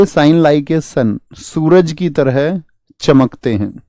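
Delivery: slow, deliberate classroom drilling; very slow drilled line. Shown as a demonstration. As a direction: stretch "Shine like a sun" out word by word. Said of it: "teacher drills the mnemonic". (बहुत धीमे, रटवाने के अंदाज़ में)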